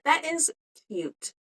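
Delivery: thrilled with her own work; delighted. Real, not acted. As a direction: gush over the earrings. Delighted by finished earrings.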